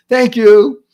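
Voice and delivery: high, loud, bouncy thanks; cheerful thanks. Shown as a demonstration. Customer thanks server for latte, cheerful thanks. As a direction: sing out a big grateful thank-you. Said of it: "you say".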